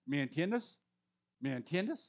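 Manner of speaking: ¿Me entiendes? in Spanish with a rising ask; ¿Me entiendes? con entonación venezolana; Venezuelan Spanish phrase. Retold or imitated. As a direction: say ¿Me entiendes? as a friendly check. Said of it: "my context in Venezuela would be".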